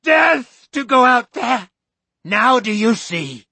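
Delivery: slow, high, loud doom preaching; fanatical shout. Acted. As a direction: hurl it at the crowd like a curse. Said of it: "Missus Carmody screamed".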